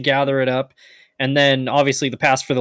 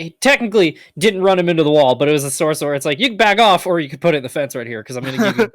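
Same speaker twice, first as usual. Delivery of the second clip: excited; 4 semitones higher, 3 dB louder, faster than usual. Real, not acted. Excited retelling of racing move.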